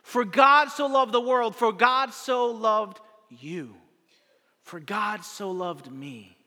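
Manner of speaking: slow, fading emphasis. Acted. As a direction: let it land personally, fading down. Preacher repeats verse building intimacy.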